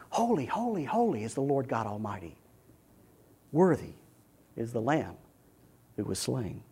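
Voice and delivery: very soft, reverent praise; hushed reverence. Acted. Worshipper standing before the Lord in heaven, hushed reverence. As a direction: let it sink low and quiet, with pauses.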